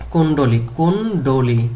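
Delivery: কুণ্ডলী said firmly as kun-do-li; pronunciation drill. Shown as a demonstration. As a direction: model কুণ্ডলী, then split it after kun. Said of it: "উচ্চারণ করতে হবে এইভাবে".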